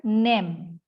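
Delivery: "name" said with a short flat e, like "nem"; "name" with one plain vowel, nem; mispronounced NAME. Shown as a demonstration. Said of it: "kata ini Anda ucapkan name".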